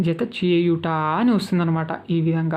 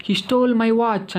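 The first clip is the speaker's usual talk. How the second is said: slow, higher-pitched example sentence; model sentence; 4 semitones higher, much slower than usual. Shown as a demonstration. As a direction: read it out slowly for learners to copy. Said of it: "అని చెప్పాలన్నమాట".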